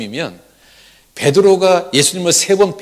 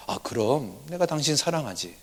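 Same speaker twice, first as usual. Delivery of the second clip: softer, measured answer; husband answering his wife with more care; careful reply; 11 dB quieter than usual. Retold or imitated. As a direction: choose each word carefully. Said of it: "좀 더 신중하게 말합니다".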